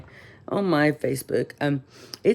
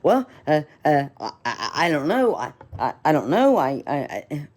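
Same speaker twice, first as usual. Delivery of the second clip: flustered clerk. Retold or imitated. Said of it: "he was all flustered".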